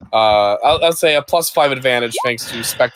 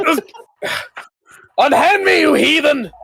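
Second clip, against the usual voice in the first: hammy stage actor; 14 semitones higher than usual. Acted. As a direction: ham it up like a stage villain. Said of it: "That's not a Mars Militia voice".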